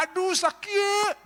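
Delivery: shrill-high loud slow pain cry. Acted. Beaten worker cries out in pain loudly. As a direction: yelp as if struck. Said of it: "begitu sakit dia berteriak".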